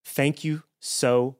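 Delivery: lightly voiced grateful lizard man, laughing. Lizard man thanking Daryl, lightly voiced, laughing. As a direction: gush thanks through giggles. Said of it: "And he goes".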